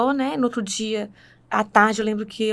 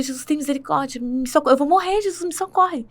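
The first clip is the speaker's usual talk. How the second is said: mild, higher-pitched imitation of crying out for help; retold desperate plea; 3 semitones higher than usual. Woman recounts begging Jesus for help at night, understated pleading. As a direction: re-enact a plea to Jesus, rising without shouting. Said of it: "Eu comecei a clamar por Jesus".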